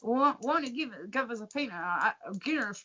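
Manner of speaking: put-on half-hearted Irish accent ordering a pint; hesitant Irish accent. Irishman asks for a Guinness, weak Irish accent. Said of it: "I can't do the Irish accent".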